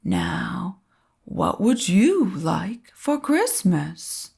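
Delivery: put-on slow, jolly Santa picking a boy; a hint of Santa, unhurried; lightly voiced Santa. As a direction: Santa choosing a child, slow and kindly. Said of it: "he asked".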